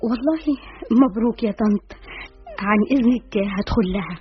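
polite words, grudgingly offered; forced yellow smile. Acted. Guest congratulating her friend's mother, with a forced smile. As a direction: congratulate through a strained fake smile. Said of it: "أقول بابتسامة صفراء".

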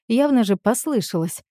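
plain reading voice

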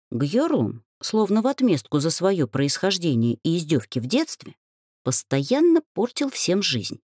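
usual speaking voice

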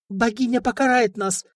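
high, frightened tearful plea; tearful pleading. Acted. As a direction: beg on the edge of tears. Princess pleading near tears.

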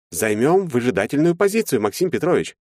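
calm him down condescendingly; smooth lawyer. A narrator's reading.

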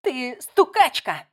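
slow, loud accusing words; angry accusation. Acted. Layla points at Kim and accuses her, slow and loud. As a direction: hammer each word at her.

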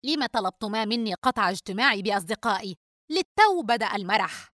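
put-on understated annoyed young man; angry and irritable. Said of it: "وقال بغضب وعصبية". (بغضب مكتوم وعصبية)

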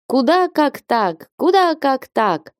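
high, slow hen-like clucking cry. A narrator's reading. Old lady flapping her arms, crying out like a hen. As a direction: cackle it out like a startled hen. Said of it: "закричала старая барышня по-куричьи".

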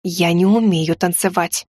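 slow hissed whisper; hissing. A narrator's reading. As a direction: hiss it through the teeth. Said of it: "шипела я".

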